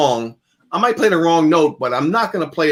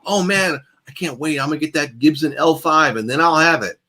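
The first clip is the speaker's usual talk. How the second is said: mock gear-hungry player; 2 semitones higher than usual. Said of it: "People that are, like, fumbling with the tone".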